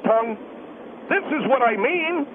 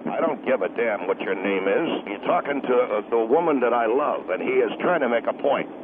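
angry husband; 12 semitones lower than usual. Acted. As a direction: step in as the husband, low and threatening. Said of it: "I'm the husband of the lady".

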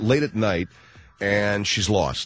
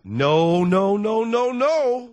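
insistent no; 12 semitones higher, 5 dB louder, much slower than usual. Retold or imitated. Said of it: "husband refusing".

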